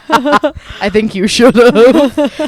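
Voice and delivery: high, loud, very slow cackle-voice; witchy voice. Pretend. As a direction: drag it out like a gleeful witch. Friend teasing in witch voice.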